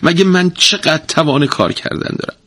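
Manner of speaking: a tired wife moaning her plea; pleading wail. A narrator's reading. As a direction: beg him, exhausted and aching. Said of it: "با تضرع نالید و گفت".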